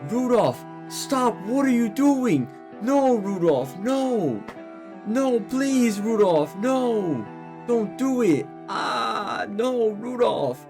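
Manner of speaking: very high falsetto begging; drawn-out, high cries of dismay; panicked pleading. Acted. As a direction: plead in a hammed-up high wail. Onlookers beg Rudolph to stop.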